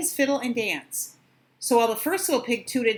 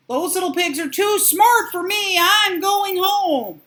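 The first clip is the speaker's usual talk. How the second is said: mock defeated; 8 semitones higher, 6 dB louder, slower than usual. Wolf fakes giving up.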